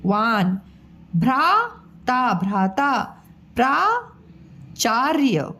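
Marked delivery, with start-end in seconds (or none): 1.2-2.3 भ्राता said slowly with a clear र after भ; slow model word. Shown as a demonstration. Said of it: "model word for pupils". 3.6-5.5 प्राचार्य said slowly, the र before य clear; teacher slowly sounding out प्राचार्य; slow model word. Shown as a demonstration. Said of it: "ये य के ऊपर ये रेफ आया".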